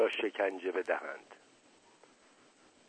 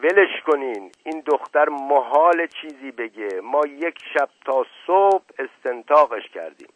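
loud, raised, impatient objection; heated, higher-pitched interruption; sharp tone; 4 semitones higher, 5 dB louder than usual. A narrator's reading. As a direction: dismiss her sharply. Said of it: "با لحن تندی گفت".

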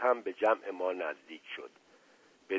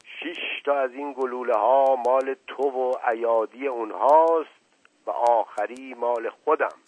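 trembling with rage; 4 semitones higher, 5 dB louder than usual. Acted. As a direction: threaten him, voice shaking with anger. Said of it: "با همان صدای لرزان از خشم".

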